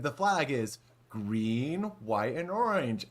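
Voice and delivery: slow mock European accent, spelling out the clue; drawn-out imitation of a vague European accent. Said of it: "a vague European accent".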